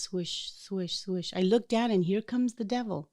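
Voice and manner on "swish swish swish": soft swishing. Retold or imitated. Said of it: "I hear this swishing noise".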